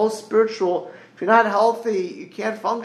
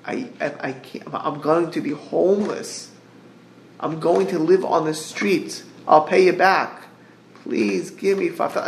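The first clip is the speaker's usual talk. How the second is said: mock crying plea; 3 semitones lower than usual. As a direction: plead like someone about to lose their home. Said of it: "If somebody comes crying to you".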